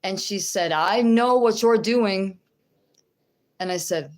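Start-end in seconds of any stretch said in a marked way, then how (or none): 0.7-2.4 loud, slow accusing hiss of a stranger; mock accusing woman. Telling the congregation about a woman in a store, loud and menacing.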